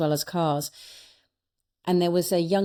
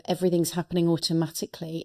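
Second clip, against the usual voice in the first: quick, even mantra recital; recited affirmation; faster than usual. Shown as a demonstration. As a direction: rattle it off like a learned chant. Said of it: "that mantra of".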